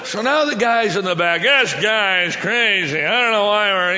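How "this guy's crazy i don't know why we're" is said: put-on loud, drawn-out drunken complaint; complaining drunk. Drunk brought back in complains about the preacher, loud heckle. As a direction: moan loudly and slowly like a heckler. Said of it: "so he's complaining".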